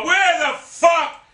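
high, drawn-out exasperation; frustrated outburst. Real, not acted. Gamer lost in the map, exasperated yell. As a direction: stretch the question out in annoyance.

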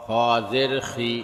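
final "খি" cut short; quick short vowel. Shown as a demonstration. Teacher demonstrating normal jer, short "খি". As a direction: keep the last "খি" brief, not held. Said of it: "তাড়াতাড়ি করতে হয়".

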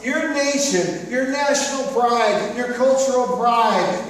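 high, loud disbelieving rebuke; exasperated Jesus. Retold or imitated. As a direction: play Jesus fed up with the question. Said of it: "He's like".

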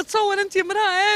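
pleading through real crying. Real, not acted. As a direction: voice breaking into tears. Distressed mother pleading on camera. (بصوت باكٍ)

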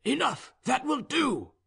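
high-pitched, offhand shout from a general; high, casual order called from a distance; careless call. A narrator's reading. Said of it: "He called out in a careless tone".

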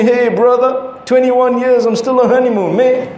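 lightly voiced cool dude accent; a hint of laid-back "hey, brother" swagger. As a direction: imitate an easygoing dude, only slightly put on. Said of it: "Just in the accent, I can hear that he's one of those cool dudes".

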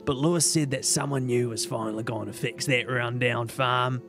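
put-on low, raspy old woman voice; old hag. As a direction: rasp it like a tired old hag. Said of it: "How do I do my Pam voice?".

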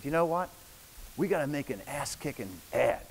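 a light take on a blunt boss; Steve Jobs impression. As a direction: toss it off like a brash founder. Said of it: "this is Jobs, how he talked".

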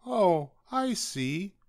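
high, slow, understanding tone; kindly rabbit. A narrator's reading. Rabbit to upset Douglas, high kindly voice. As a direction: draw it out sympathetically. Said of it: "said the rabbit kindly".

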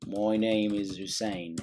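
slow, soft dictating as he types; slow dictation. Real, not acted. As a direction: read it out slowly while typing. Typing message slowly.

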